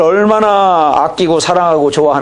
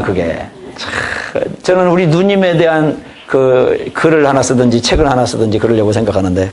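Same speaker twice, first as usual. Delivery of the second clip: ordinary talk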